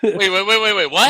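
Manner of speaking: startled, loud and high; surprised. Real, not acted. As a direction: cut in, stunned by what you heard. Interrupting in disbelief.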